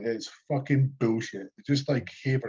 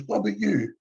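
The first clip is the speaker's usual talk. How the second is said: much higher snooty lady voice; mocking shop lady; 9 semitones higher than usual. Mimicking the shop lady quizzing the other boy, high snoot. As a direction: squeak it up like the nosy cashier. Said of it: "And she goes".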